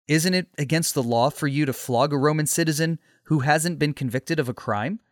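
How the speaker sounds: mild, measured courtesy; polite question. Acted. Paul questioning the centurion before a flogging, understated politeness. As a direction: query it politely, without raising the voice. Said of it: "he asked politely".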